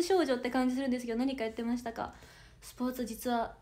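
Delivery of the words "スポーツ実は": sheepish whisper, admitting to chat; whispered confession. Real, not acted. Whispering to chat that she can't actually do sports. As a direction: drop to a whisper as if sharing a secret.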